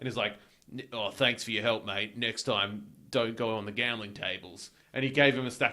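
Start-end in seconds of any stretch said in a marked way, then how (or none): 0.7-4.7 put-on Australian accent. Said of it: "I like how you're doing an Australian accent".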